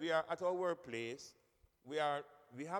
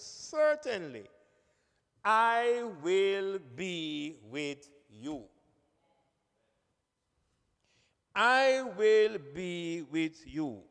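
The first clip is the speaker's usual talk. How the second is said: slow, drawn-out and deliberate, louder; calm voice of God; 7 dB louder, much slower than usual. Acted. Preacher voicing God reassuring Moses, slow and calm. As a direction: let each word land slowly as God's reassurance. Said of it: "listen to the tone of God".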